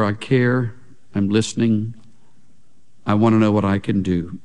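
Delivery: low, tender voicing of a listening king; gentle reassurance. Preacher voicing the king's care for Esther, gently reassuring.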